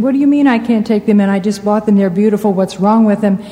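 mildly indignant protest, quick start; retold remonstrating. Traveler protesting to a border guard, mildly remonstrating. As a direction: argue back in mock disbelief, without raising the voice. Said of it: "remonstrated with him".

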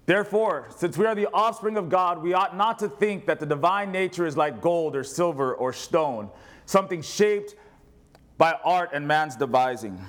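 measured Bible reading aloud; scripture reading. Acted. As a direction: read it out steadily to the church.

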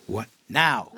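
a touch of retold surprise, rising; mock disbelief at a sudden order; startled. Disciple told to go at once, mildly startled.

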